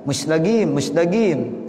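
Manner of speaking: Egyptian "mustaqim", said as musdagim; hard g for the qaf in "mustaqim"; Egyptian dialect. Shown as a demonstration. Teacher imitating Egyptians, "mustaqim" in Egyptian dialect. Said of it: "dia udah go aja".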